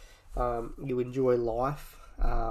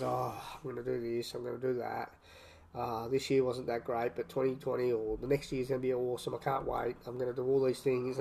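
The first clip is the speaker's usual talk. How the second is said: mocking resolution-maker; 5 dB quieter than usual. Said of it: "gets to the end of every year and says".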